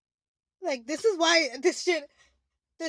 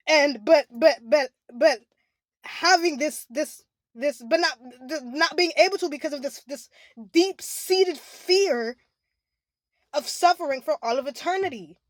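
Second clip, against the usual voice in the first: crying; 4 dB louder than usual. Real, not acted. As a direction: push the words out through a sob. Crying while describing the fear.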